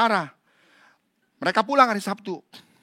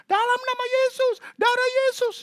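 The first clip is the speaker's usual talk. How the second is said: high frantic prayer; 5 dB louder than usual. Retold or imitated. Students praying over possessed.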